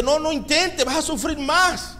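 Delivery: high-pitched calling down; acted-out crowd yelling a warning; mock discouraging shout. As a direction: call out high, urging them to give up. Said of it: "entre más le gritaban".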